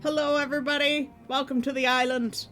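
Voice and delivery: high, loud character welcome; cute anime streamer. Acted. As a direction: greet the crowd as a bubbly island host.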